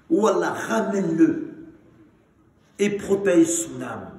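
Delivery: drawn-out plea to God; fervent supplication. Acted. Prophet praying for a young man who strayed, fervent supplication. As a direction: call out the prayer, stretching the last words. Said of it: "Allah va faire dua, il va dire".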